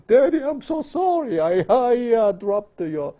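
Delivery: put-on gasp, then high stammering child's apology; frightened apology. Child apologising to Daddy for dropping something, high acted fearful apology. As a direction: play a scared child confessing, high and halting.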